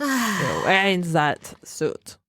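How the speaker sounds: put-on slow, drawn-out stab at a German accent; badly faked German accent; attempted German accent. German trainer mocking a suit, slow botched German accent. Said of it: "I can't do German".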